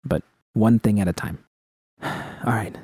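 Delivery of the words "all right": whispered all right; breathy, spent. A narrator's reading. Judy to V, drained before the talk, whispered. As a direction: let the air out on the words. Weary sigh before confronting.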